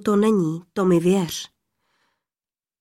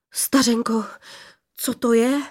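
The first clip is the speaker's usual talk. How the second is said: a touch of awed surprise, raised pitch; lightly voiced astonished youth; breathed-out wonder; 3 semitones higher than usual. A narrator's reading. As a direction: ask it on an amazed outbreath. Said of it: "vydechl mládenec".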